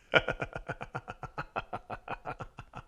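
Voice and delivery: long, soft, airy chuckle; laughing. Real, not acted. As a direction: laugh quietly to yourself. Laughs at his own line.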